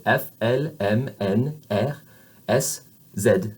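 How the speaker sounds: "F, L, M" with open eh, "Z" as zed; French alphabet letters on an open vowel; French letter names. Shown as a demonstration. Teacher showing the open vowel, French letter names. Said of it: "that is the vowel sound that we use when we say these letters".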